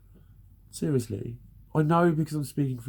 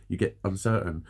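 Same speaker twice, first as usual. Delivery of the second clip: ordinary talk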